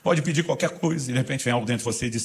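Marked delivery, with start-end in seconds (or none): 0.0-1.1 lightly raised, coaxing prayer voice; a touch of a pliant believer offering anything; mock pleading prayer. Believer telling Jesus to ask anything, lightly coaxing. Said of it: "você fala".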